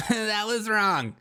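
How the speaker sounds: high, slow giggling repeat; laughing echo. Retold or imitated. Echoing the clip's verdict while laughing, high and slow. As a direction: mimic the clip through laughter.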